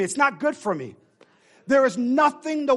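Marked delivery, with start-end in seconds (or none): 0.0-1.0 "It's not good for me" with NOT stressed and falling; congregation call. Shown as a demonstration. Preacher leads the congregation in a response, stressing NOT. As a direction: lead the call-back, hitting NOT. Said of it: "Say with me".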